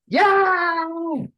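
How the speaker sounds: a very high, squealed "yay"; mock cheer. Investor reliving the signed contract, squealing a high cheer. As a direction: cheer like a kid who just won.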